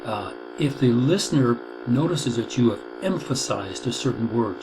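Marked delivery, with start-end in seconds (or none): 3.0-3.8 "emphasized" set apart and pressed, syllable by syllable; stress on emphasized. Shown as a demonstration. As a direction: lean firmly on the word "emphasized". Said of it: "just like I just emphasized the word emphasized".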